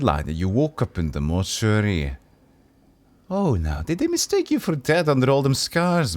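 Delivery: put-on wry old man in a light Brynjolf-like accent, chuckling; lightly accented old tout. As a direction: joke about the Dustmen like a gossiping old-timer. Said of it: "This accent sounds like Brynjolf".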